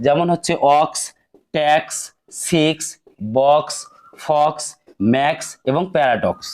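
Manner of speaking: each x said as ks; carefully sounded ks endings; model words with x. Shown as a demonstration. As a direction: demo the ks sound in each word. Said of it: "তাহলে কস উচ্চারণ করতে হবে".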